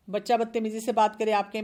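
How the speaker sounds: ordinary talk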